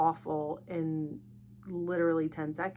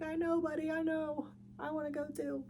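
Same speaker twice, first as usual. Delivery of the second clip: put-on higher, sing-song pity for a child; mock sympathy; 9 semitones higher, 3 dB quieter than usual. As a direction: coo along with the kid, half-joking. Her mock-sympathetic reply to son.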